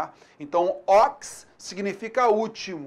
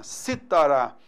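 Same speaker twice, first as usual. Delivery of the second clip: citará said as cítara, stressed on CI; stress on third-last syllable; 5 semitones lower, slower than usual. Shown as a demonstration. Teacher illustrates a proparoxytone, stressing the CI of citará. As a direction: hit the first syllable of citará, then fall. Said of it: "a antepenúltima sílaba, ela é tônica".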